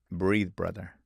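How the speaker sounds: lightly imitated gentle monk; a touch of quiet, unhurried reassurance. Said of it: "very gently and he says".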